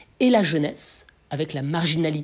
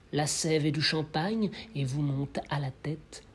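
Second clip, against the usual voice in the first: poem recitation. Acted. Lecturer reads Rimbaud's June night verses, gentle poem recitation. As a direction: recite with brief swells, then drop to a hush. Recites the poem's second chapter.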